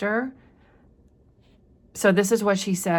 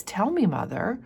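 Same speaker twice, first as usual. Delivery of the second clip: put-on a grave little girl pressing her mother; serious child; 6 semitones higher than usual. Pearl turning serious, pleading with her mother. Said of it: "she becomes very serious".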